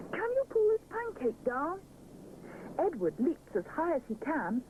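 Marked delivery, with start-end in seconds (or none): 0.1-1.8 calling out. Acted. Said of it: "he shouts".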